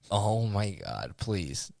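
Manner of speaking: quiet, slow exasperation; weary retold plea. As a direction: draw it out under your breath. Retells dreading a fight with stranger.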